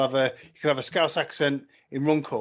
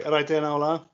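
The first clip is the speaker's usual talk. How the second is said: Scouse accent; 2 semitones higher, 3 dB louder than usual. Shown as a demonstration. Showing friends how Scouse differs from Geordie, Scouse accent. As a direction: put on Scouse for a quick greeting. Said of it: "Whereas Scouse will say".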